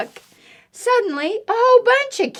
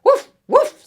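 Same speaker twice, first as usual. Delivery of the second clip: high, loud yappy woofs; dog barking; 8 dB louder than usual. Acted. Dog answers duck riding past, high barking. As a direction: bark it high and punchy.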